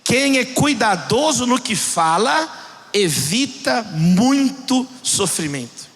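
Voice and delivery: measured scripture reading, word by word; solemn slow reading. Real, not acted. Preacher reads Proverbs to congregation, solemn and slow.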